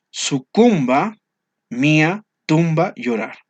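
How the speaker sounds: Sucumba slow, high and loud, then mía, tumba, llorar punched; stressing the rhymes. Shown as a demonstration. Teacher points out the rhyming words to the students, each one stressed. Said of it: "Sucumba con tumba".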